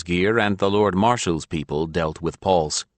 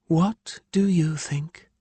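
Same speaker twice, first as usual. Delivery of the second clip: edged reply; 11 semitones higher, slower than usual. A narrator's reading. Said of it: "with a distinct edge to her voice".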